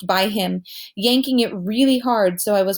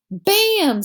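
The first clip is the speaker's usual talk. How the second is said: mock punch sound; 11 semitones higher, 3 dB louder than usual. Amos throws a fake punch.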